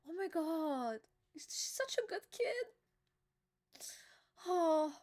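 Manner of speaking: choked-up and tearful, words breaking; fighting back crying; real tears. Real, not acted. Fan tearing up at the scene, pleading it to stop. Reader overcome by sad scene.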